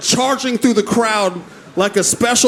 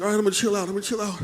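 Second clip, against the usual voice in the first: calming cousin voice; 8 dB quieter, much faster than usual. Retold or imitated.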